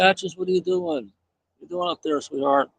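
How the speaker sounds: sweet high voice for a pet; pet talk. Real, not acted. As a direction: coo up at the cat in the tree. Talking to cat in tree.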